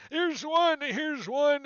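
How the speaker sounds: high, loud eager calling; eager thug. Acted. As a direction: swing and call out each hit. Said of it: "He's like".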